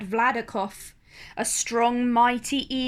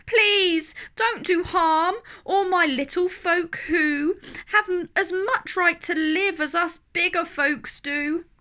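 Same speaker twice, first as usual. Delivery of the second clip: louder, higher desperate plea; begging; 7 semitones higher, 3 dB louder than usual. Acted. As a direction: beg the eagle to spare them. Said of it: "and begged".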